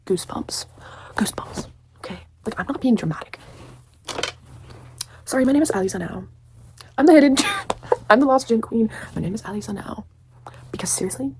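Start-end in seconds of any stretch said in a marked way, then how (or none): 5.2-10.0 loud proud queen introduction, breaking into a laugh; playfully hammed-up heroine declaring who she is; mock grand heroine. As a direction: announce yourself like a hammed-up lost queen.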